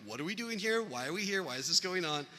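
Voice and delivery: mildly acted upset questioning; emotional boys. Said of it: "we're all just emotional".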